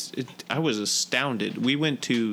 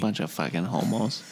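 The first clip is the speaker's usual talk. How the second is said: Boston tough guy; 4 semitones lower than usual. Retold or imitated. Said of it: "Good Will Hunting".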